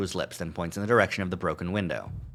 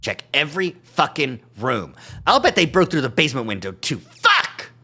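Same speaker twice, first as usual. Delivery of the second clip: higher, louder barked orders; shouting; 6 semitones higher, 6 dB louder than usual. Acted. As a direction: yell the orders down the hall. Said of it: "Duke continues to shout".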